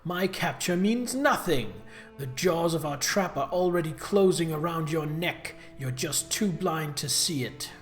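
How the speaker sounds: cartoon villain. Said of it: "You talk like a cartoon villain".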